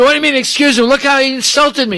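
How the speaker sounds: refusing his wife's plea in rage; retold fury, voice thrown high and loud; furious Shiva. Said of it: "He gets so angry".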